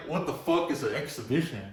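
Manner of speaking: asks it through a laugh, baffled; half-laughing, what on earth is that; laughing disbelief. Retold or imitated. Laughing as he retells asking what an exhibition is.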